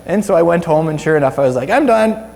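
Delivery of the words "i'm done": higher, mildly exclaimed self-quote; retold giving up. Retelling the moment his neck got pulled, emphatic giving up. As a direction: announce that it's all over.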